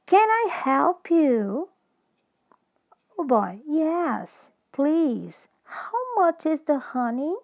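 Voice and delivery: teacher modelling a dialogue; slow dialogue read. Shown as a demonstration. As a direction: read each line slowly for the class to repeat. Reads the dialogue for repetition.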